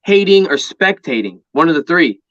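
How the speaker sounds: slow, deliberate saying, each word spaced; slow quoted motto. Retold or imitated. Quoting a fighter's motto to the host, slowly. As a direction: spell out the motto slowly like a mantra. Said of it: "he said".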